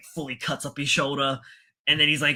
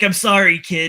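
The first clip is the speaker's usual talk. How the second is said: apologetic captain; 5 semitones higher, 9 dB louder than usual. Retold or imitated. Captain abandoning the kid.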